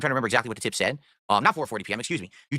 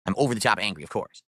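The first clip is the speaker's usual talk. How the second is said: deadpan sarcasm; 5 semitones lower than usual. Real, not acted. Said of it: "as you can tell in my voice".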